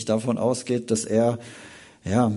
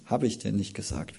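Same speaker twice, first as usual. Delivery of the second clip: tender; 6 dB quieter than usual. Acted. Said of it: "Er nähert sich ihr ganz persönlich".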